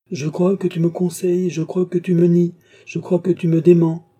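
high, rising angry outburst; cold anger. A narrator's reading. Old master raging at his doubting pupil. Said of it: "avec une froide colère".

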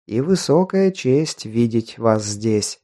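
lightly voiced old man, rustling; a hint of a dry rustling elder. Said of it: "прошелестел палой листвой старческий голос".

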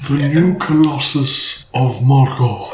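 lightly hammed-up wizard proclamation; Gandalf. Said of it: "the Gandalf voice".

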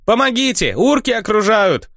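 high, squealing mock panic; the log yells high at the orcs around it; log crying for help. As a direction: squeal for help like a tiny prisoner.

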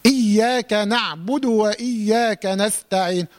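slow verse with firm hamza in إياك and وإياك; clear hamza recitation. Shown as a demonstration. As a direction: recite slowly, attacking each hamza of وإياك. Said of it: "من تحقيق الهمزات دائمًا".

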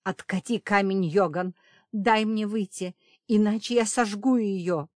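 loud furious demand; threatening shout. A narrator's reading. Safira threatens to burn the witch, loud angry demand. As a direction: threaten him at full voice.

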